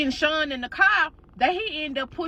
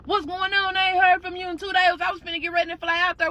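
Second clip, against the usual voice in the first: high, fast worried husband voice on the phone; 6 semitones higher, faster than usual. Retold or imitated. Husband on the phone to his wife, high and rushed. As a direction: rattle it off high like an anxious husband.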